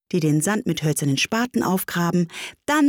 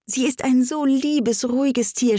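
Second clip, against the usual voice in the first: doting; 7 semitones higher than usual. A narrator's reading. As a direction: linger fondly on the praise. Alice dotes on her cat.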